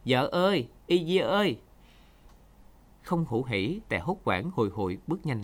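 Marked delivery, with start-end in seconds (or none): 0.0-1.6 loud, high call across the reeds; shouting her name from a distance; calling from afar. A narrator's reading. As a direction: call out to your wife far away. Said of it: "Từ xa Tè gọi".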